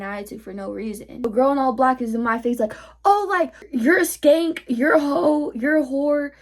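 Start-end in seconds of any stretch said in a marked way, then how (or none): 3.1-6.3 raised, higher-pitched imitation of name-calling; mock yelling. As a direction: mimic her yelling in rising jabs. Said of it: "was yelling at me".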